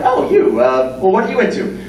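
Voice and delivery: high mock chirpy small talk; mock bubbly small talk. Asking what you're into, in a high mock chirp. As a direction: play a bubbly friend making awkward small talk. Mocking a dull couple's friend.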